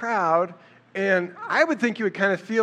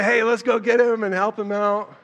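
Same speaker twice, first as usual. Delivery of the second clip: higher, louder playful imitation of Mom; mock Mary; 5 semitones higher, 5 dB louder than usual. Mary urging the family to fetch Jesus, mock eager. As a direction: mimic Mom's eager rescue plan lightly. Imagined Mary voiced by teller.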